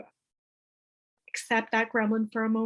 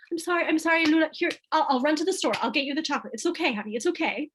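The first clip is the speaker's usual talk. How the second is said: a hint of a flustered, higher-pitched apologizing mom; mock pleading parent; 5 semitones higher, faster than usual. Mother mocking the parent who gives in, lightly flustered and higher. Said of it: "Go to, right?".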